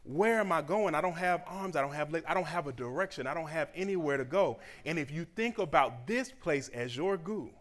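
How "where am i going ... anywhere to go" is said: confused goo voice. Retold or imitated. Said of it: "where it's like".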